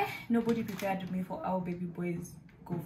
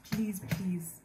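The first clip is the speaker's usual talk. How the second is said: whispered plea. Real, not acted. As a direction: beg them in a whisper. Pleading with moms.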